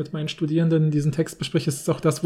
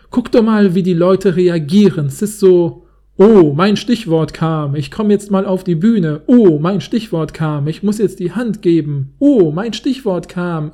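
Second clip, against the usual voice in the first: loud, slow mocking rant; ranting director; 6 dB louder, slower than usual. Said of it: "in der Art vorzulesen".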